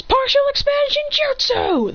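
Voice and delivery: high, drawn-out technique call; battle-cry call. Acted. Fighter invoking his jutsu to grow, battle-cry call. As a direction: call out the attack name high, holding each word.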